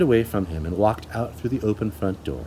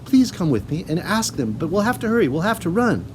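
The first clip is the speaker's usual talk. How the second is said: put-on high, eager hurried girl; urgent; 6 semitones higher than usual. A narrator's reading. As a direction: urge her to hurry. Urgent pleading.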